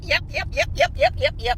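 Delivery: high, giggling yep yep; smug amused chant; gleeful yeps. Real, not acted. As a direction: chirp it through laughter.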